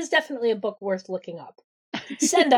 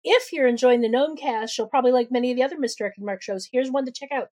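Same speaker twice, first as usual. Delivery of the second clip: lively, lightly scripted announcer read; faster than usual. Acted. Host reading a joke sponsor ad to listeners, upbeat ad read. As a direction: sell it like a podcast sponsor spot. Reads sponsor and show credits.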